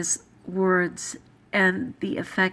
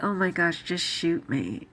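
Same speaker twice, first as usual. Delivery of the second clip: frustrated sigh; 3 semitones lower than usual. Retold or imitated. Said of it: "when I'm frustrated, I'll say things like".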